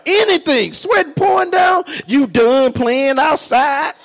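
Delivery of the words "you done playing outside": drawn-out mock wife's question, rising at the end; hammed-up wife's question; imitating wife. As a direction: mimic the wife, loud and slow. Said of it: "my wife said".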